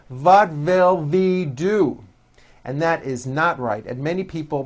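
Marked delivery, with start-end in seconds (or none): 0.1-2.0 put-on What will we do? as "vat vill ve do", German accent, slow; mock a German speaker swapping W for V; German accent, What will we do? with V sounds. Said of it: "they may say".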